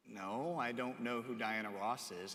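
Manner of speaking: unimpressed reply. Acted. Young man answering his pastor about a singer, unimpressed. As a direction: answer the outrage with quiet indifference.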